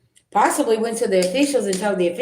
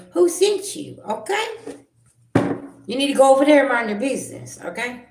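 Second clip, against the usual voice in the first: sharp, much higher, louder retort; angry clapback; 7 semitones higher, 3 dB louder than usual. Real, not acted. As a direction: put the nosy viewer in their place. Snapping back at a nosy viewer.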